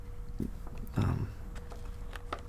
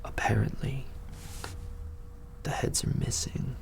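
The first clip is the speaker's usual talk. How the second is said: unvoiced whisper, much softer; 5 semitones higher, 8 dB quieter than usual. Tavern men whispering gruesome news to the party, hushed. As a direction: breathe out the grim detail in secret. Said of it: "they go".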